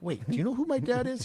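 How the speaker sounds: as if he can't believe it; indignant surprise. Retold or imitated. Young cadet challenging the sergeant major, incredulous.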